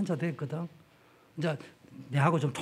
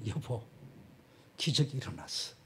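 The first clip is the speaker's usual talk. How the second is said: hushed wife's news; 5 semitones lower, 12 dB quieter than usual. Retold or imitated. Wife quoted telling news.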